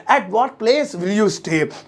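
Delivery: very slow, word by word; stretched out; slow repeat. Shown as a demonstration. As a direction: drill it for the class. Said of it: "तुम किस जगह रहोगे".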